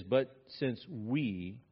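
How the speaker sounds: "But since we" drawn out slowly, no extra push; slow plain reading. Shown as a demonstration. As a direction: read it slowly and evenly first. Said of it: "this is an interesting "we".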